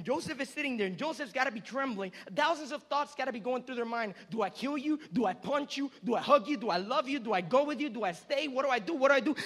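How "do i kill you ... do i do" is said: rapid-fire questions building louder; overwhelmed. Acted. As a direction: fire off each question, torn and agitated. Acting Joseph's overwhelmed racing thoughts.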